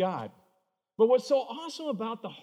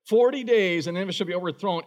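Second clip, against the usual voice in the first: prophet's warning; 4 dB louder than usual. Shown as a demonstration. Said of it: "Fastest sermon ever".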